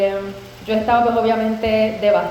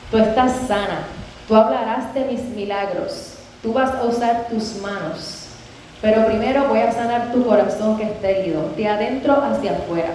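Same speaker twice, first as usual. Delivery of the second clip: retold prophetic declaration. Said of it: "él empieza a clamar, y él me dice".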